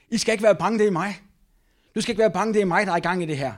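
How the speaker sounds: urgent, lifted encouragement; calling out. Acted. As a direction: call out firmly over the storm. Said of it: "Jesus råbte til dem".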